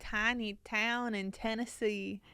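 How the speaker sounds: a slow, tentative Southern try; copying the friend's drawl, half-hearted; attempted country accent. Shown as a demonstration. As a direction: try out the Tennessee twang carefully. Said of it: "See, it's not bad".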